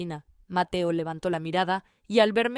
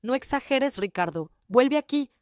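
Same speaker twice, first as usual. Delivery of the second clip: mild mock yell; 5 semitones higher than usual. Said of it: "escuché a mi madre gritar".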